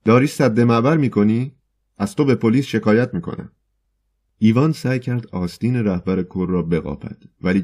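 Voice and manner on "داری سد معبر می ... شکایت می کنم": higher, louder angry threat; angry shout. Acted. Poet angrily threatens the man blocking his way, louder. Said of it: "ایوان خشمگین فریاد زد".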